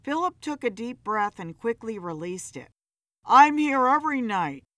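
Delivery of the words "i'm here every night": incensed. A narrator's reading.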